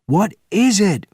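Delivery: high, loud demanding roar. Acted. Benjamin rushing to the window, roaring. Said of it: "roared Benjamin".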